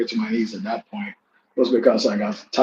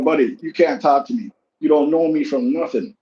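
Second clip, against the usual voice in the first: retold telling off; 3 semitones higher than usual. Scolding the barber who talked about him, raised and heated. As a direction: put him in his place, heated.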